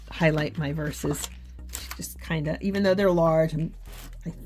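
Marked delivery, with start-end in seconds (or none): 4.2-4.3 quick whisper while concentrating; hushed, focused aside to herself. Real, not acted. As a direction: mutter it under your breath while working carefully. Concentrating while highlighting verses.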